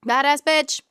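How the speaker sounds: high, loud gleeful echo; punchy, delighted repeat. Real, not acted. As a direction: relish the phrase. Echoing prompt with gusto.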